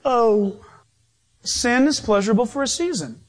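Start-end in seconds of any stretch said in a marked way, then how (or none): 0.0-0.6 mock giddy giggle in the voice; giggly, goofy. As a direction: play someone goofily tickled by a wink. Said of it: "all giggly goofy about it".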